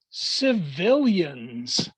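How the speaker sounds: civilians drawn out slowly and set apart; emphasis on civilians. Shown as a demonstration. To Toastmasters, stressing the word civilians slowly. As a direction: linger on civilians. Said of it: "I'm emphasizing this word civilians".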